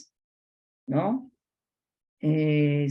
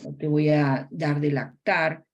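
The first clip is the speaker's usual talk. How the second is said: gentle mother talk; slower than usual. Shown as a demonstration. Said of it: "la madre tiene que manifestar".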